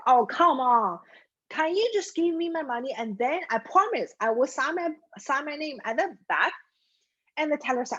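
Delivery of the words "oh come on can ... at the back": higher-pitched mild plea; pleading. Acted. Customer begging the teller for his money, pleading. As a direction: coax with an exasperated "oh, come on".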